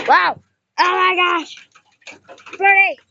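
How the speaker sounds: voicing the bird, high and amazed; playful wow for the baby bird; mock amazed bird. Kid voicing the baby bird to viewers, high and amazed. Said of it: "He's like".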